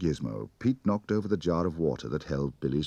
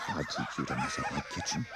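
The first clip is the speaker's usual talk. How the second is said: muttered; 3 semitones lower, 5 dB quieter than usual. A narrator's reading. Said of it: "she muttered".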